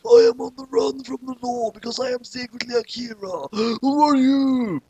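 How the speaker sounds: high, put-on voice with a gasp; put-on Kira voice. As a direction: play him as a startled criminal.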